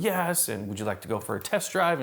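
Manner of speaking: imitating an accommodating sales rep; super cordial. Sales rep offering a customer a test drive, cordial. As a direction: open on an eager yes, then offer politely. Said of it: "super nice, super cordial".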